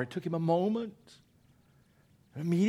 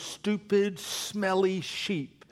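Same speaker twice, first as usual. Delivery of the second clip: disdainful; 4 semitones higher, much slower than usual. Acted. Mocking the sheep again.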